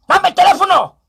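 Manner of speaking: lightly voiced robber demand; hammed-up robber. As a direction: demand the phone like a mock thug. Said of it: "Le dije".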